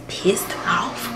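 hushed whisper of the crude words. Retold or imitated. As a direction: drop to a whisper as if the words can't be said aloud. Repeating the mother's crude words.

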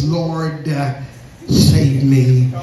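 low, solemn churchy plea; sanctified voice. Shown as a demonstration. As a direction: put on a composed, pious voice. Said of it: "talking in his sanctified voice".

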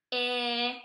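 In split into separate held sounds; teacher modelling segmenting; sounds segmented. Shown as a demonstration. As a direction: pull In apart sound by sound. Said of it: "Tell me the sounds you hear in".

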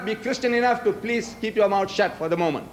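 usual speaking voice

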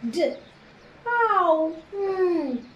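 D, ow, mm as three separate sounds with gaps; sounded out. Shown as a demonstration. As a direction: sound out each piece on its own: D, ow, mm. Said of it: "O W says ow".

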